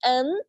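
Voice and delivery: N sounded in the nose; nasal N. Shown as a demonstration. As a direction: let N ring through the nose. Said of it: "थोड़ा सा नोज में इसको sound देना". (नाक से गूंजता "N")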